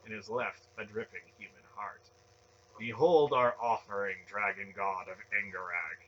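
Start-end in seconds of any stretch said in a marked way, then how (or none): 2.8-6.0 loud ceremonial cry; huge voice. A narrator's reading. Priest offering a heart to his god, huge loud cry. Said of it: "he cried in a huge voice".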